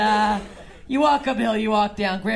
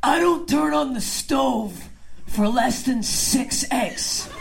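a lightly voiced stubborn dad, slow; a hint of a gruff father, unhurried; imitating dad; much slower than usual. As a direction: lay down the egg rule like gospel. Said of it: "He goes".

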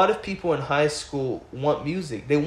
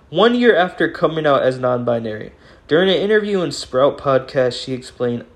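reading the news; 6 dB louder than usual. Acted. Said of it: "let me just read it".

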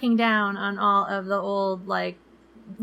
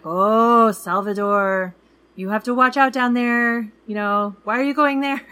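warning cab driver; 2 semitones higher, 5 dB louder than usual. Retold or imitated. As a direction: warn them, stretching Salvador. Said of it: "he was like".

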